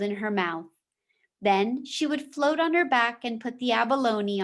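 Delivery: steady storytelling voice for a class; reading a chapter aloud to the class; story read-aloud. A narrator's reading. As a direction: read the novel to the students. Teacher reads novel aloud.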